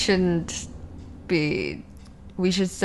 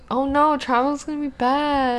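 mock dismay; 7 semitones higher than usual. Returning to the travel topic, mock dismay. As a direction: lament it in a raised, put-on voice.

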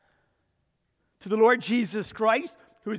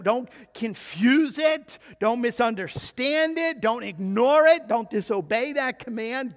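forceful warning. Real, not acted. Preacher hammering the command.

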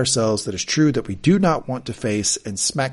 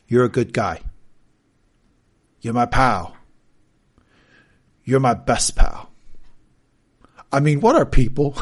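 gruff Logan; 4 dB louder than usual. Retold or imitated. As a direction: lay each line down like a lonely old tycoon. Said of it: "Logan to Colin".

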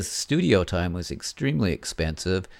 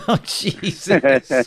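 slow laughing exclamation; 8 semitones higher, much slower than usual. Real, not acted. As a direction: laugh through the words. Laughing at cigarette joke.

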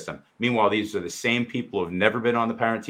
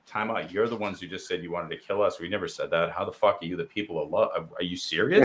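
incredulous retort. Retold or imitated. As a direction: call them out in disbelief. Retorting to the group, disbelief.

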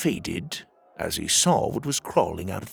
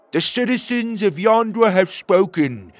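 higher, firm little-hero voice; a small creature standing its ground, higher; small brave platypus; 8 semitones higher, 6 dB louder than usual. Acted. Petey telling Tuga the Yondrans have spoken, firm and higher.

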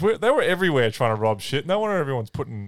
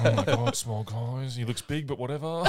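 mock scribe; 7 dB quieter than usual. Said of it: "the literal scribe's like".

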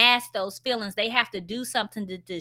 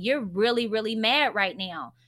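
gentle validating. Shown as a demonstration. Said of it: "Voice the feeling".

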